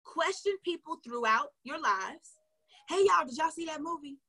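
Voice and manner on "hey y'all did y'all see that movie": chatty live host. Shown as a demonstration. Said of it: "Act like you're talking to your girl".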